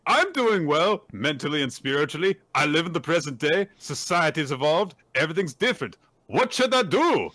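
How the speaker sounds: lightly acted anguished musician; troubled musician. Character asks his brother for advice, lightly acted anguish. Acts Don's troubled speech.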